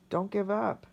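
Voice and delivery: tearful encouragement, held back; emotional. Real, not acted. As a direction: plead with real feeling. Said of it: "this was really emotional".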